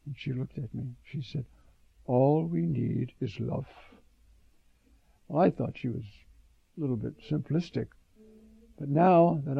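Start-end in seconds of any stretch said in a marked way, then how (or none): 2.0-3.7 slow, lightly imitated Russian accent. Catherine answers the complaint about Daley, imitated Russian accent. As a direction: repeat her line slowly in a light Russian accent. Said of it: "she said in her Russian accent".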